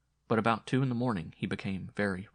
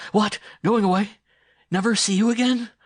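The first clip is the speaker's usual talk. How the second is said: much higher, louder desperate outcry; fevered boy crying out, terrified; anguished cry; 13 semitones higher, 14 dB louder than usual. A narrator's reading. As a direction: cry out in panic at losing her. Dying boy springs up crying out.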